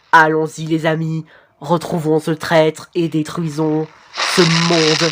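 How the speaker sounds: slow, monotone robot voice; voix robotique, robotic. Acted. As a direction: drone it out evenly like a robot. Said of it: "je voulais plutôt faire une voix robotique". (voix de robot lente et monocorde)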